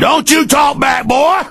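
imitating bullying cop. Radio host imitating a bullying cop for callers, shouted sneer. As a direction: bark it like a power-drunk cop lording over citizens. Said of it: "that's an imitation of 'em".

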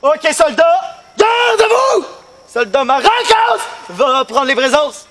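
barked drill sergeant commands. Acted. Drill sergeant barking orders.

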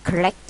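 "collect" stressed on the second syllable. Shown as a demonstration. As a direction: say "collect" with the weight on -LECT. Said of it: "nhấn âm hai".

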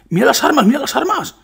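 excited. Real, not acted. Shows off the weapons.

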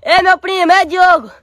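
calling out. Acted. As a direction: call out across the yard. Calling cousin from the bush.

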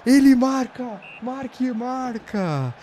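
high, loud, stretched goal call; explosive goal commentary. Pretend. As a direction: scream it like a TV commentator. Scoring a goal, narrating it.

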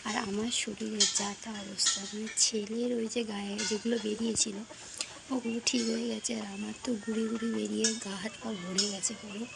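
talking through a toothbrush; words around a brush in the mouth; while brushing teeth. Real, not acted. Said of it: "brush হাতে নিয়ে brush করছি". (দাঁত brush করতে করতে কথা বলা)

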